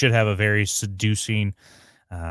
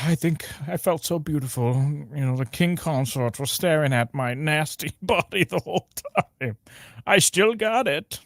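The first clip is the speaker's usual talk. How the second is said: lightly acted, higher-pitched smug boast; hammed-up self-admiration; mock self-satisfied woman; 5 semitones higher than usual. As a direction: imitate her being pleased with herself, drawing out the end. Acted quote of woman boasting about herself.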